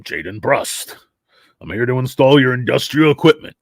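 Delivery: lightly voiced raspy working man; a hint of smoker's rasp, introducing himself; Jaden Brust. Tradesman arriving to install industrial equipment, raspy voice. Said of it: "Jason Brust has a very raspy voice".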